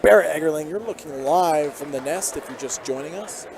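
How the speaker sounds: steady broadcast call, lifting on each drive; live play-by-play. Real, not acted. Commentator calling the game for listeners at home, play-by-play.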